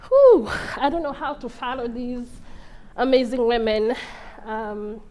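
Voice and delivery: really moved, halting between phrases; overwhelmed speaker pausing to collect herself; emotional. Real, not acted. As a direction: let out a whew, then gather yourself with pauses. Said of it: "I'm getting very emotional right now".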